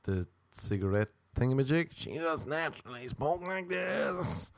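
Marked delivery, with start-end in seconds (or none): 1.9-4.5 slow, soft, droning robot voice; flat mechanical drone, unhurried. Retold or imitated. Comedian keeps mimicking the DMV woman, robot drone. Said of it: "a woman in there with a robot voice".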